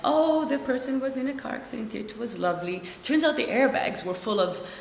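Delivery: breezy mock-cheerful report; nonchalant. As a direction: recount it airily, as if it were lovely. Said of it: "it was all nonchalantly like".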